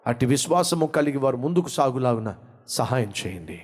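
rising, pleading prayer over music; fervent prayer. Acted. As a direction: pray fervently for the listeners. Leads the closing prayer.

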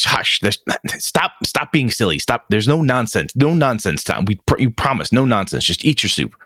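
urgent, hushing reprimand; lightly voiced flustered mom; scolding mother. Mom hushing her girl at supper, mildly scolding.

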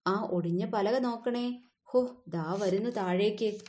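a hint of fussy helpers giving orders; lightly voiced animal crew busy at the chimney. Animals shouting on the roof.

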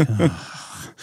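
imitated eye-roll sigh; exasperated sigh. Police lady unimpressed by stapler, imitated exasperated sigh. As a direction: let out a low, weary sigh. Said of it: "just rolled her eyes".

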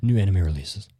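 very high, slow anime hero announce; shonen boy voice. Pretend. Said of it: "just like my shonen boy voice".

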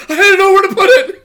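high, laughing through the line. Retold or imitated. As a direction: crack up while quoting him. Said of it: "He's like".

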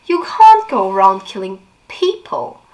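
sarcastic echo with a rising end; mocking echo. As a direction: throw her words back at her. Jace mockingly echoes Clary.

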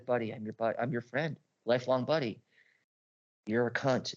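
fake friendly. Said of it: "A red sun comes to you and says".

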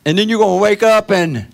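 mocking singsong. Mocks dreamy hope of paradise.

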